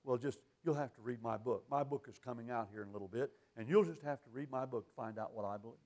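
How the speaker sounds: low, soft imitation of an evasive preacher; lightly mocking a smug preacher. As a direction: toss off the question, push the book. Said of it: "they say".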